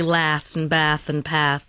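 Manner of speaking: LAST, BATH and PATH with the A of cat; flat American A in LAST, BATH, PATH; American short A. Shown as a demonstration. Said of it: "but it would be".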